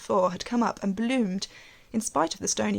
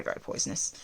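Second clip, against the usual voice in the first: whisper; 7 dB quieter, faster than usual. Shown as a demonstration. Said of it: "be a little bit careful of".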